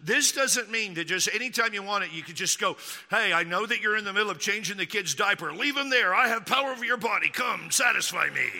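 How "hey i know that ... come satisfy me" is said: hammed-up bossy husband; mock demanding. Husband demanding his busy wife come, mock-bossy. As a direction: order her about with mock entitlement.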